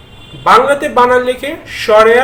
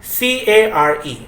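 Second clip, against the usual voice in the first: spelled out slowly; slower than usual. Shown as a demonstration. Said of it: "কেয়ার".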